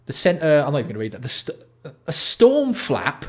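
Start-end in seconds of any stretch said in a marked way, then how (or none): 2.1-3.2 high, slow, stunned; incredulous storm flap. Real, not acted. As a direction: drag it out in disbelief, high and loud. Disbelief at product feature.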